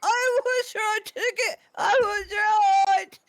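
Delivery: high, slow, crowing I was right; triumphant gloating. Real, not acted. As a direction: gloat loudly and drawn out.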